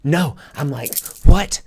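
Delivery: high, loud, tearful no's; sobbing protest. Retold or imitated. Waking from regression, sobbing loud no's. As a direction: cry out in panicked protest. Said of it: "and start sobbing".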